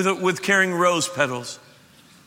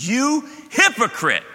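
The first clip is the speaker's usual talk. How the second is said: higher, slow, pointed You hypocrite with YOU leaned on; blunt rebuke; 7 semitones higher, 3 dB louder, slower than usual. Retold or imitated. Jesus calling out the ruler in everyday language, blunt rebuke. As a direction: say You hypocrite plainly and slowly, like everyday talk. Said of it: "He said".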